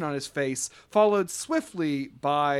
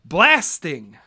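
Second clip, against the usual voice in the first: lightly voiced manager; 2 semitones higher, 6 dB louder, slower than usual. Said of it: "he says".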